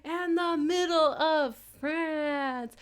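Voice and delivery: high, stretched announcer call; hyped shout out. Real, not acted. Streamer shouting out every part of France, hyped. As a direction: keep the hype rolling.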